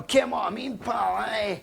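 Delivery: hammed-up shouting Scot; loud Scottish accent. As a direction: belt out "Ken what I mean" in a hammed-up Scottish accent. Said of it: "They always say Ken as well".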